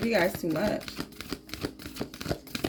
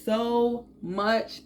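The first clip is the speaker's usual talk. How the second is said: slower, careful retake; careful redo; 2 semitones higher, slower than usual. Real, not acted. Tarot reader retakes a fumbled line, slowly. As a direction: say it again slowly and clearly. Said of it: "I don't know why it came out like that".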